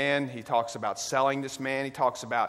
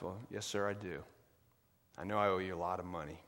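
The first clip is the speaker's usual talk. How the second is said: meek debtor; 5 semitones lower, 10 dB quieter, faster than usual. Acted. Debtor answers the angry king.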